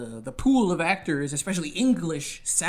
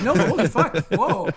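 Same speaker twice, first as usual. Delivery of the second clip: mock-awed; 2 semitones higher, 4 dB louder than usual. Guest imitating impressed actors, mock-awed and loud. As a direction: play their jaws dropping.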